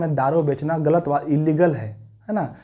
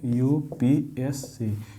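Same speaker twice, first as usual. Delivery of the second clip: slow dictation; much slower than usual. Shown as a demonstration. Teacher spelling the acronym to the class, slowly. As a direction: stretch out each letter. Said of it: "यूनियन पब्लिक सर्विस कमीशन।".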